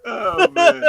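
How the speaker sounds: high, loud delighted reaction; excited. Real, not acted. Cohost reacting to the joke with a high excited oh man. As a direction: squeal it out in delight.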